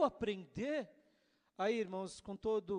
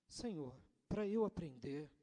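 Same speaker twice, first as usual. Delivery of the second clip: mild sulky protest to God; understated sulky whine; pouting complaint; 3 semitones lower, 4 dB quieter than usual. Retold or imitated. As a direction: say it with a pout. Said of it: "já com bico".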